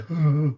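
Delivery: mock bashful "hoo"; shy shrinking noise. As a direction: imitate shrinking into a shell. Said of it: "crawl in your shell and say".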